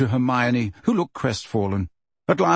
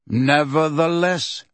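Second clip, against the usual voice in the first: slow, even "Nevertheless"; calm; 3 semitones higher, slower than usual. Acted. Megorian overrules Bane, slow and calm. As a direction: settle the argument calmly. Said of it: "said Megorian calmly".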